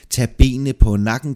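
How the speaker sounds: impatient, energetic prodding; urging. Acted. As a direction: spur your companion on. Impatiently urges companion to hurry.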